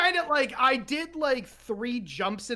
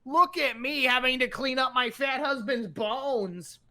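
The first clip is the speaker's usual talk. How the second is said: lightly voiced wife, mock complaining; a hint of a whiny wife; 3 semitones higher than usual. Husband mimics wife griping over bones. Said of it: "She doesn't actually sound like that".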